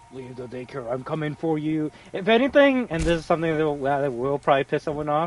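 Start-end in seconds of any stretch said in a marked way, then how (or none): 0.1-1.9 spooky, put-on scary villain-style voice. Quoting a line from the game: imitating a scary voice. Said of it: "the scary voice?".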